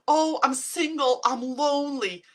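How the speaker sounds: high, loud, drawn-out moan; whiny lonely complaint. Retold or imitated. Vlogger mocking lonely self-talk to viewers, high whiny moan. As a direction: sigh out the loneliness.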